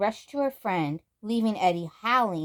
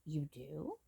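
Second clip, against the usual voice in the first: surprised; 3 semitones lower, 12 dB quieter than usual. Acted.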